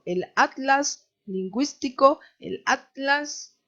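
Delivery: "atlas" separado at-las, en tono alto; pronunciación de España. Retold or imitated. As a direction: imita el "atlas" español cortando t y l. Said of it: "Ellos se paran así". ("atlas" como at-las, imitando a los españoles)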